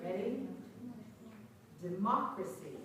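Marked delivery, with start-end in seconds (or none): 1.8-2.8 "Democracy" with the stressed second syllable marked; word stress. Shown as a demonstration. Teacher throws the ball on stressed syllable, word stress. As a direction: lean on the "moc" in "Democracy". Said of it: "when I stress the syllable".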